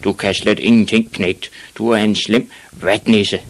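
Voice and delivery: mildly blustering dad; shouting father. Acted. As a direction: berate the boy forcefully. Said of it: "råbte hans far".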